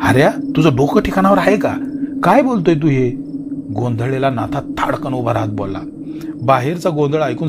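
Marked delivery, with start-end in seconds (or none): 0.0-3.1 louder, higher angry disbelief. Acted. Natha scolding Hari for the unbelievable news, angry raised voice. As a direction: scold him for talking nonsense.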